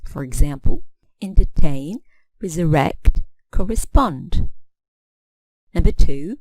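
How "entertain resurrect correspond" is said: "entertain, resurrect, correspond", each stressed on the final syllable. Shown as a demonstration. Teacher showing three-syllable examples, "entertain, resurrect, correspond" stressed on final syllables. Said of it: "if the final syllable is strong".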